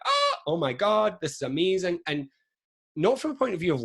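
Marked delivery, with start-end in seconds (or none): 0.1-2.0 breathless amazement, voice lifted high; amazed. Retold or imitated. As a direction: relive the moment it clicked, awestruck. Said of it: "and I was like".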